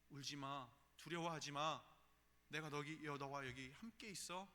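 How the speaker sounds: building from calm to loud; comfort, then swell into a firm promise; God's comforting voice. Retold or imitated. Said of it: "라고 하나님 우리에게 말씀하십니다".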